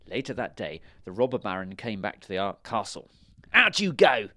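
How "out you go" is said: high, loud order; villain's shout. A narrator's reading. Robber baron orders the royals out, loud high shout. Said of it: "he shouted".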